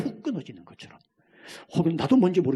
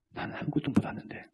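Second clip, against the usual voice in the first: whisper; 4 semitones higher, 8 dB quieter than usual. Acted. Voiced humble believer.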